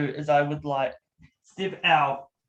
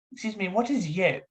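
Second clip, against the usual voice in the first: lightly voiced puzzled London doctor; a hint of a London character; Doctor Cromwell; 4 semitones higher than usual. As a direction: query the slang politely, slightly raised in pitch. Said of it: "His name is Doctor Cromwell".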